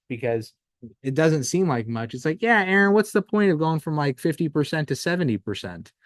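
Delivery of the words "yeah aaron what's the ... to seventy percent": higher, louder mock-dismissive question; scoffing skeptic. A client shrugging off small gains, mock dismissive. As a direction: play the doubter brushing off the gains.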